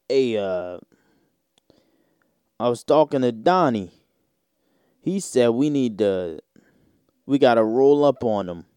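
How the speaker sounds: mock Italian-American mobster accent; thick Italian accent. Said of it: "that thick Italian accent".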